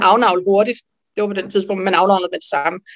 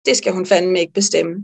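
defiant inner Pippi; 3 semitones lower than usual. Retold or imitated. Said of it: "indre Pippi fanden i voldsked".

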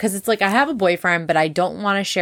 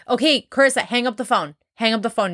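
retold impatient listener; 4 semitones higher, faster than usual. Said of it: "You're like".

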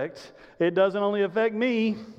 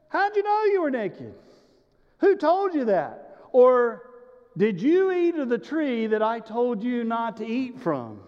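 God questioning; 3 semitones higher than usual. Acted. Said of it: "And God goes".

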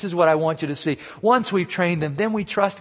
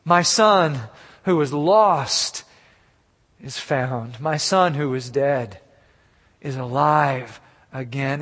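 heartfelt relief; slower than usual. Acted. Father declaring his lost son found, slow heartfelt wonder.

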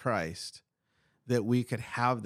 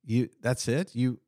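Peter amazed; 3 semitones higher than usual. Retold or imitated. Voicing Peter's amazed inner thought.

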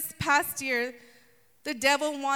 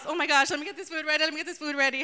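hurried fuss; 2 semitones higher, much faster than usual. Pretend. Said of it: "just imagine Martha in her house".

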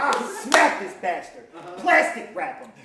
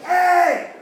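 raised, strained whisper yell; 8 semitones higher, 7 dB louder than usual. Retold or imitated. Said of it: "whisper scream your bars".

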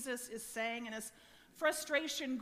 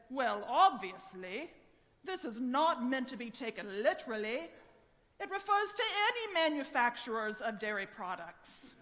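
Gregory. Retold or imitated. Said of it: "Gregory says".

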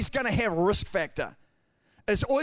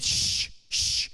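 whispered shush; hushing shh. Retold or imitated. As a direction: hush him sharply under the breath. Crowd hushing the blind beggar.

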